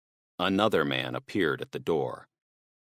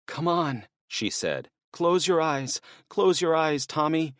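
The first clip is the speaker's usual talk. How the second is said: put-on higher, hushed urgency to a child; urgent comforting; 10 semitones higher than usual. Susan telling Tommy to close his eyes, urgent. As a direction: shield the boy, scared but gentle.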